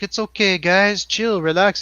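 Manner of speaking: breezy high "it's okay" voice; laid-back guy impression. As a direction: play it cool and soothing. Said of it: "He's like".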